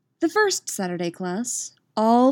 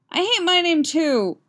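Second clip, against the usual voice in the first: high-pitched eager outburst; excited clamouring girl; 11 semitones higher, 4 dB louder than usual. A narrator's reading. Girl joins the others wanting new names, clamouring. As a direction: pipe up loudly from the group. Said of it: "screaming, bouncing girls".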